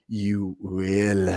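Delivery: put-on low, soft "You will" with an accent on "will"; Wanda's Sokovian accent. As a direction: inflect "will" with her accent. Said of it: "the way that she inflects on the ill".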